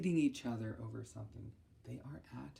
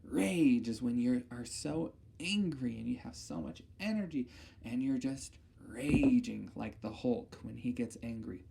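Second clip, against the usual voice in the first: normal talking voice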